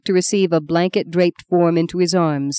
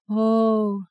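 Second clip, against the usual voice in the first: soft keening; 4 semitones higher, 4 dB quieter than usual. A narrator's reading. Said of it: "the women softly keening".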